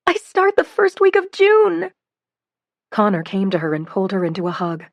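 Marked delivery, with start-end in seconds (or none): 0.1-1.9 high, slow, loud delight; excited. A narrator's reading. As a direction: savour every word. Announcing news to family.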